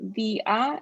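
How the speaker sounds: dia drawn out, stressed on the I; accented syllable. Shown as a demonstration. Tutor demonstrating accents, dia stressed on the I. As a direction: say dia slowly as "DEE-ah". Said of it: "an emphasis on a syllable".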